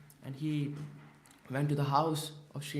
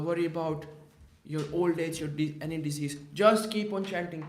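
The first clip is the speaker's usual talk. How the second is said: firm promise; 2 semitones higher, 5 dB louder, faster than usual. Retold or imitated. Mahaprabhu firmly promises care.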